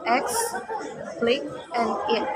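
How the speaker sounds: explicit split as X, click, it with pauses; syllable by syllable. Shown as a demonstration. Student dividing explicit into syllables for class, one beat each. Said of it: "divide explicit in syllable is".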